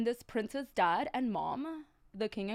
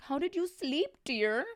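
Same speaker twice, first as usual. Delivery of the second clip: queen's question; 4 semitones higher than usual. Acted. Queen asks the princess.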